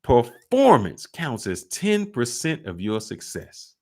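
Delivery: slow, punched-out delivery on request; drawn-out, deliberate restatement; emphatic repeat. Retold or imitated. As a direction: hammer it home word by word. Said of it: "Say it louder".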